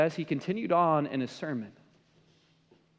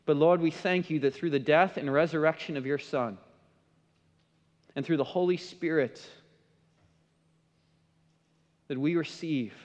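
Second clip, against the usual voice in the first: prayer. Acted. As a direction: pray aloud simply, pausing between phrases. Leads closing prayer.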